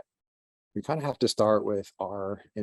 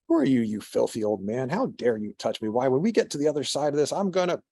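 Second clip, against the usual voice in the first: lightly voiced indignant rant, speeding up and going higher; a touch of a pompous man sputtering at the monk; indignant merchant; 4 semitones higher than usual. Merchant berating the monk carrying him, mild mock indignation.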